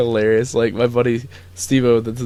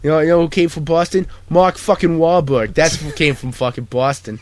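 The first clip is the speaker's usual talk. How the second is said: tough Boston guy; 4 semitones higher than usual. Pretend. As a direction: brag like a Boston bruiser. Playing Mark Wahlberg, loud.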